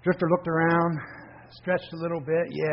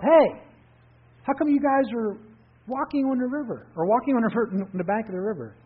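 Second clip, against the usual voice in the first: calling up the cliff, raised and high; yelling up; 8 semitones higher, 4 dB louder than usual. A narrator's reading. Drifter yelling up from the river to people on the bank, loud call. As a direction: shout up to strangers on a steep bank. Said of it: "And he yelled up".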